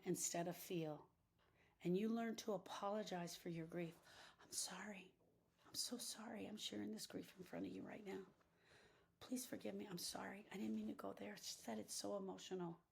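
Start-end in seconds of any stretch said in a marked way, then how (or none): 4.4-12.8 whispered, ashamed apology; hushed apology. Retold or imitated. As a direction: say sorry in a near whisper, embarrassed to be crying.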